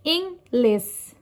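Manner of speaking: inglés split up, stress marked on GLÉS; stress on accented syllable. Shown as a demonstration. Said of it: "written accent on the syllable that is stressed".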